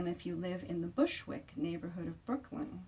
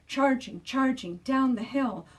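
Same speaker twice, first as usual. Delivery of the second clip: excited; 5 semitones higher, 6 dB louder than usual. A narrator's reading. Chase acted excitedly.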